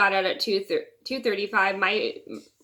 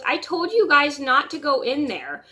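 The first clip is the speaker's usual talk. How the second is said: imitating mom scolding; 6 semitones higher, 4 dB louder than usual. Retold mom scolding kids.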